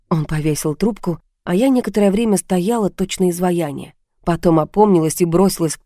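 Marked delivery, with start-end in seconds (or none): none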